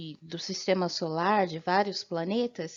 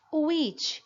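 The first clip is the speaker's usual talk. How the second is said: whisper; 6 semitones higher than usual. Shown as a demonstration. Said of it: "whisper heard".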